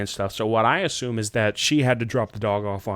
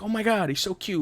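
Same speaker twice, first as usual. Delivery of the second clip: cooing over pet; 8 semitones higher, 6 dB quieter than usual. Retold or imitated. Acts out gushing over pet dog.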